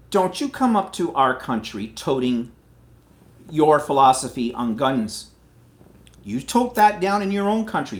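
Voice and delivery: loud, heated scolding; angry scolding. Real, not acted. To American gun fans, a loud angry telling off. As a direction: tell them off. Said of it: "'cause I'm pissed off right now".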